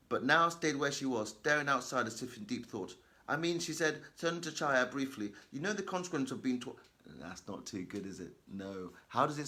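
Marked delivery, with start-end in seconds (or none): 0.1-6.8 hurried, nervous read-aloud; rushed reading. Shown as a demonstration. Teacher demonstrating a rushed, nervous reading aloud. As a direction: rush through it like a scared pupil. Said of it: "It sounds as if you're rushing".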